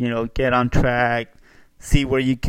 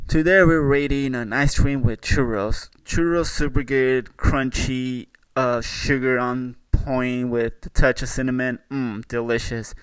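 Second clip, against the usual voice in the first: mock food reviewer. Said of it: "be like".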